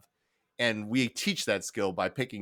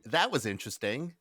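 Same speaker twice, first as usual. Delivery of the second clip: Minnesota polite disapproval. Shown as a demonstration. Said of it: "it's the same context you would use for, "That is gross".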